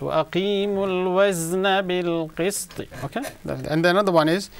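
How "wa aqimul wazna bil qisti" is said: Wa aqimul wazna bil qisti with wazna stressed, za pushed hard; forced za. Shown as a demonstration. Teacher modelling the verse for the reciter, forceful za. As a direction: force the za in wazna and let the voice rise. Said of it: "you have to force it".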